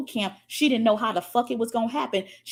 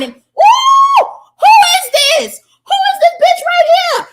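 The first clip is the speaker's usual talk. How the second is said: much higher, loud squeal of who is this; delighted shriek; 12 dB louder, slower than usual. Real, not acted. Coach spotting a viewer's comment, squealing loud. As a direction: shriek with joy at the screen.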